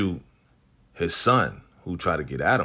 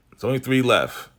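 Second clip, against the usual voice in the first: louder, pressing the point home; emphatic repeat; 4 semitones higher, 4 dB louder than usual. Shown as a demonstration. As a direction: hammer it home for viewers.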